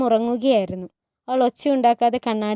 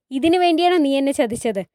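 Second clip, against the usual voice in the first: angry accusation; 3 semitones higher, 4 dB louder than usual. Acted. Hurrem holding up the shawl to her betrayer, angrily. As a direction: throw the betrayal in her face.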